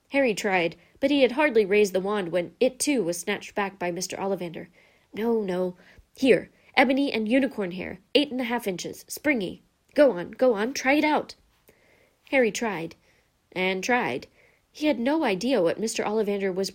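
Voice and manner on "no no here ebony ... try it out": mildly excited, rising at the end; eager urging. Acted. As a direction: hurry the customer to try it. Wandmaker urges next wand on boy.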